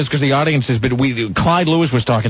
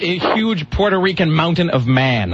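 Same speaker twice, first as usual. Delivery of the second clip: savoring the quote; 2 semitones higher, slower than usual. Retold or imitated. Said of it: "best opening phrase".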